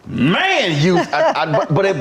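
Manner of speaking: high laughing through words. Real, not acted. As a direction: laugh while getting the words out. Laughing while telling.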